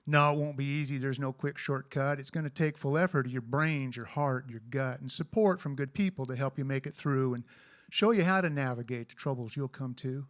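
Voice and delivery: cowboy poem recitation; cowboy poetry. Acted.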